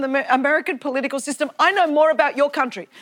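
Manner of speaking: ordinary delivery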